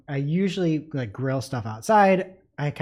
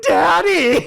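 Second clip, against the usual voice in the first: high, loud mock cry of a panicked kid; imitated alarmed child; 14 semitones higher, 7 dB louder than usual. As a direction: call out like a startled daughter. Daughter's alarmed cry, retold.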